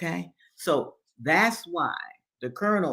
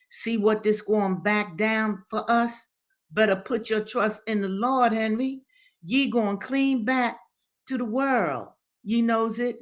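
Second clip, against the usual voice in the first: exclaiming Mammy Judy; 7 semitones higher, 3 dB louder than usual. A narrator's reading. Old servant urges Henry to trust the Lord, exclaiming. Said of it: "exclaimed Mammy Judy".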